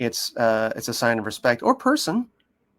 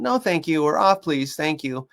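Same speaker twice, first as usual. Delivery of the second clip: pleasant lifted-pitch redirection; friendly tone; 5 semitones higher than usual. Retold or imitated. Owner redirecting excited dog, friendly tone. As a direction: politely sing out the correction. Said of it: "redirecting in a friendly tone".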